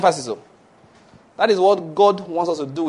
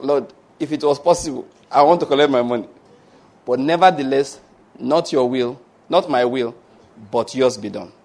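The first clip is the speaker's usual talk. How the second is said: model prayer. Shown as a demonstration. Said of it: "Next day you come back".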